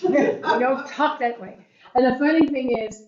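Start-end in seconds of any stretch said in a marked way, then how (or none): 0.0-1.6 higher-pitched telling-off from a strict father; mock parental scolding, pitched up. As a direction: imitate a stickler dad correcting speech. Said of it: "He'd go".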